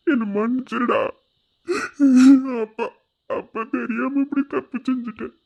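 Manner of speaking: choked up, pausing between pleas; a father tearfully begging forgiveness; tearful apology. Acted. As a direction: plead through tears, halting. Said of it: "எதுக்கு அழுதுக்கு இருக்க?".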